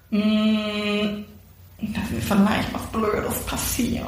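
put-on slow, whispered, sheepish small-child voice; childlike confession. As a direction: confess timidly like a little girl. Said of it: "so wie eine Fünfjährige". (kleinlaut und langsam geflüstert, kindlich)

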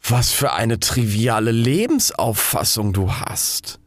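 slow, lightly voiced scorn; disdainful rocket. Rocket sneers at the fire ball, slow and lightly scornful. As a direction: look down your nose at it. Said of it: "sagte die Rakete".

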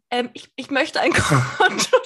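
halting meek imitation, breaking into laughter; kleinlaut. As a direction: stammer a timid request while holding back laughs. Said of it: "weil ich so kleinlaut war". (kleinlaut nachgeahmt, stockend und mit Lachen)

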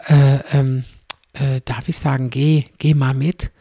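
slow, stumbling unsure question; awkward hesitation. Retold or imitated. Embarrassed person unsure if they may say geh, hesitant. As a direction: fumble for the right words.

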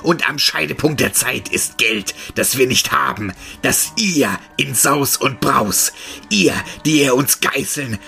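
loud, distorted furious tirade; raging monster roar. A narrator's reading. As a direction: boil over with rage. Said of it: "Vor Wut überkochend ... brüllte".

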